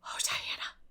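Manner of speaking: awed breathless whisper; stunned girl whispering to her friend. A narrator's reading. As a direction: barely breathe her name. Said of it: "whispered Anne".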